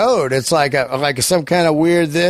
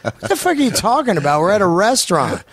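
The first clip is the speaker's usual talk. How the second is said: baffled disbelief; 3 semitones higher, faster than usual. Retold or imitated. His own baffled reply.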